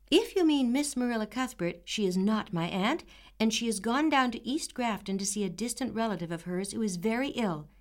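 dignified. Acted. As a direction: answer with growing dignity. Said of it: "with increase of dignity".

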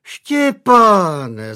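startled mother calling out her son; startled exclamation. A narrator's reading. Mother crying out at son's joke, high and startled. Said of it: "zvolala jeho matka".

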